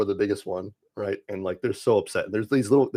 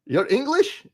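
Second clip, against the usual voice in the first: mock British accent, squeaky high incredulous rise; mock British accent, shocked high question; 3 dB louder, slower than usual. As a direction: tease in a put-on British accent, pitch soaring up. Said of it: "I am very good with the accent".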